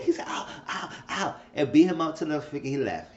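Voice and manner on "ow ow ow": soft breathy mock ows; quick pretend "ow" cries; imitated pain cries. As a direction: play-act yelps of pain, kept quiet. Imitates a man being beaten.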